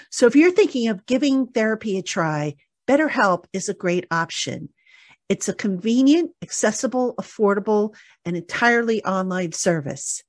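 measured, articulate podcast ad read; sponsor ad read. Real, not acted. Host reading listeners the sponsor message, ad-read delivery. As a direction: read the sponsor copy clearly and evenly.

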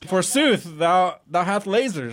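slow, mock Shakespearean declaiming; hammy stage actor. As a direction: ham it up like an old English knight. Joking medieval knight talk.

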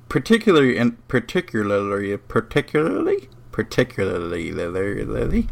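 garbled, repeated attempts at "particularly"; tongue-tied stumbling. Real, not acted. Host stuck on a word he can't say, tongue-tied "particularly". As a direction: trip over the syllables of "particularly". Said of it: "I can't say that word".

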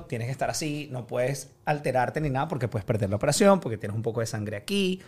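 doctor quote. Retold or imitated. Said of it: "El doctor me dijo".

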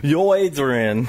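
slow, lightly voiced Rocky; a hint of Rocky calling Adrian; Stallone impression. Asked to try Stallone, a mild Rocky voice. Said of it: "try Stallone".

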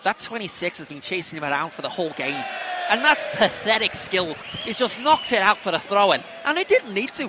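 complaining Scouse match commentary; Scouse accent. Shown as a demonstration. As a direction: moan about the player in put-on Scouse. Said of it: "I'll do Scouse".

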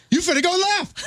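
recorded nav prompt voice. Retold or imitated. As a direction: play back your own silly navigation prompt. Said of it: "I was like".

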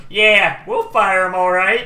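loud, high backing-up shout; hammed-up guard's bluster; blustering threat. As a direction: chime in with loud bravado. Second guard backs up the threat.

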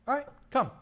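Jesus inviting. Retold or imitated. Jesus answering Peter.

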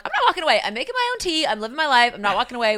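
mock-proud defiance; defiant. Defiant self-quote at snack table.

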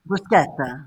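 "Bruschetta" said with SK, broo-SKET-ta; hard K in "Bruschetta", not SH; correct hard K. Shown as a demonstration. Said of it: "Double C is a K".

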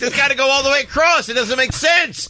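high, exasperated squeal; high-pitched. Real, not acted. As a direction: complain in a squeaky voice.

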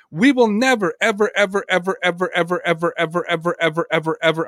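each ever repeated, fading as breath runs out; endless evers. Shown as a demonstration. Host to co-host on Brady, evers trailing off breathlessly. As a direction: pile on the evers until breath is nearly gone. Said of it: "I'm running out of breath".

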